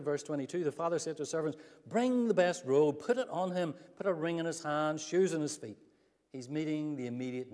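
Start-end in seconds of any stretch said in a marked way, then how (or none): 1.9-5.8 joyful father's command. Acted. Father orders servants, read aloud.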